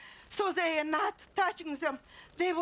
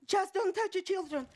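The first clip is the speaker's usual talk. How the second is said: the same plea pitched higher, more desperate; urgent plea; 4 semitones higher than usual. Acted. Mother begging the killers to spare her children, rising desperation. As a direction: beg harder, voice lifting.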